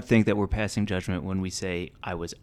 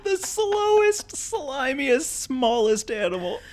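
slow, much higher trailer voice; dramatic announcer; 14 semitones higher, 4 dB quieter, much slower than usual. Pretend. Dramatic announcer-style description.

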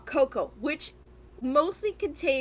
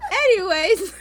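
louder, laughing; laughing embarrassed; 8 semitones higher, 7 dB louder than usual. Real, not acted. Teased host telling friend to shut up, laughing. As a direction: brush it off laughing.

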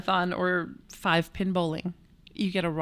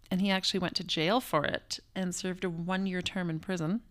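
whispering; 5 dB quieter than usual. Acted. Dramatic aside about jail.

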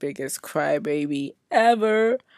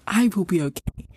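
whisper; 3 semitones higher than usual. Retold or imitated. Self-reassurance in retold inner talk.

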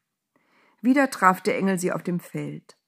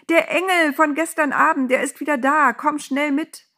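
high, loud excited shout; breaking news, pitched high and urgent; calling from afar; 9 semitones higher, 5 dB louder than usual. A narrator's reading. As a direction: call urgently across a field. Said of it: "rief sie schon von Weitem".

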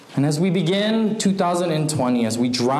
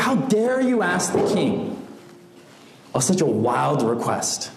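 angry. Acted. Spokesperson scolding the man who asked for a palace, mildly angry. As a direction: scold with acted, understated outrage. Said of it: "He was angry, he was irritated".

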